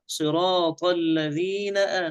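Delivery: "آ" after "الذين" begun with a glottal catch; careful tajweed, separate onset on "آ"; realised hamza. Shown as a demonstration. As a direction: articulate the stop at "آ" fully. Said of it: "الهمزة تكون محققة".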